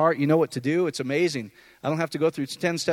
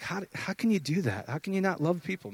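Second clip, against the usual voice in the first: incredulous aside; 7 dB quieter than usual. Retold or imitated. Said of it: "I'm like".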